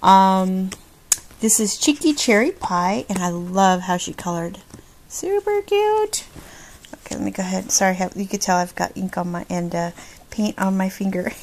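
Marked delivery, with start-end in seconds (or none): 5.1-6.3 high, slow, squeaky; cutesy squeal. Real, not acted. Vlogger cooing high over a cute stamped card. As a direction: coo it sweetly like something adorable.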